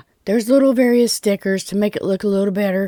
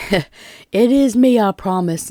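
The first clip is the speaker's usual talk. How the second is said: pollen-stuffed voice; slower than usual. Real, not acted. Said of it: "pollen's got me".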